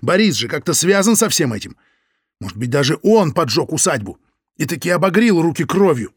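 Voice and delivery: loud heated accusation; angry rant. Acted. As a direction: keep raging at her. Лёня keeps ranting.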